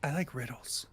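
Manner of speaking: put-on whispery child ghost; lightly haunting child whisper. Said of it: "this ghostly voice".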